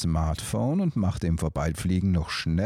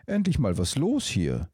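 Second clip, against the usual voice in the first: pleased; 4 semitones higher than usual. Acted. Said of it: "freute er sich".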